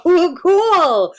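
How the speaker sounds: high, loud, drawn-out cool; excited. Real, not acted. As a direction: gush it out delighted. Excited reaction.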